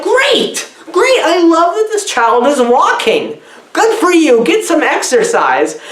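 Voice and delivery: high-pitched, over-eager encouragement; mock cheering. Viewer applauding a child for walking, mock enthusiastic.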